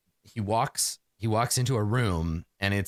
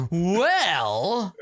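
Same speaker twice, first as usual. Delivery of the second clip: eager gasp; 4 semitones higher than usual. Acted. Inventor gasps eagerly.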